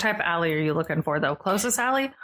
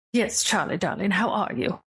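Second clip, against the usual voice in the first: lightly voiced fussy NPC; 3 semitones higher than usual. NPC greeting Charlie.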